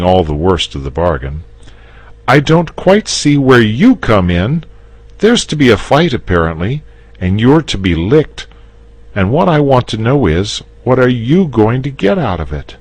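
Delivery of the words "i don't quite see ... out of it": put-on high, loud young boy voice; boy demanding what the dragon gains; indignant boy. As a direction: stick up for your friend. The boy's lines, voiced.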